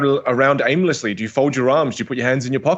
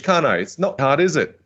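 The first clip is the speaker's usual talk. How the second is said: a bit English; 3 semitones higher than usual. Shown as a demonstration. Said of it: "I can turn a bit English".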